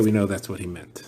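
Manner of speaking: a soft, confiding whisper; whispered aside. Real, not acted. Teacher whispers a confiding aside to the class. Aside while explaining the Rabbanan.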